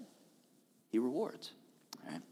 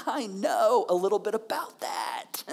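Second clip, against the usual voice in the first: amused; 2 semitones higher, slower than usual. Retold or imitated. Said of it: "like, laughing at you".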